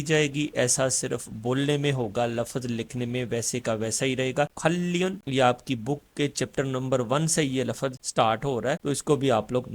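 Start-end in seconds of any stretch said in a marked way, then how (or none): 4.6-5.2 खल्लियन with a long double L; Korean assimilated sound. Shown as a demonstration. Teacher models the final sound for learners, assimilated pronunciation. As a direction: hold the L in खल्लियन. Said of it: "इसका जो final sound होगा वो".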